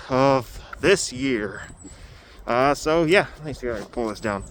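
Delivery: muffled, talking through a face covering. Real, not acted. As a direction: speak muffled behind a covered mouth. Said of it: "deal with my muffled voice".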